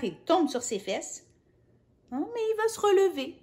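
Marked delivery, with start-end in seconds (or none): 2.1-3.4 fast and high encouragement; rally him, quick and bright; excited. Acted. Reading to a child, cheering the fallen tortoise on.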